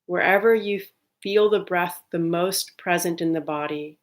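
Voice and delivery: calm, unhurried meditation guide with long pauses; guided meditation. Real, not acted. Leading listeners to settle on the breath, calm guided meditation. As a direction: ease listeners into stillness, evenly and gently.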